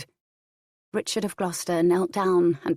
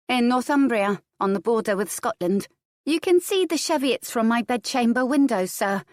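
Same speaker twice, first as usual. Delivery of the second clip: put-on higher-pitched little girl answering politely; small countess's high, polite reply; young girl Adair; 6 semitones higher than usual. A narrator's reading. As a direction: lift the pitch for a child replying to an elder. Child answers the prior.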